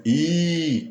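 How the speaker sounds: "I" as a high, drawn-out exclamation; interjection. Shown as a demonstration. Teacher showing the exclamation written with H, high drawn-out interjection. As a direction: stretch "I" long and high like an interjection. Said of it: "que é uma interjeição".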